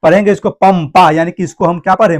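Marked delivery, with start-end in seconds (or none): 0.5-1.1 पंपा read with an m sound; anusvara as m. Shown as a demonstration. Teacher reading out the example, पंपा with an m. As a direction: sound the dot in पंपा as m, before प. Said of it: "म पढ़े".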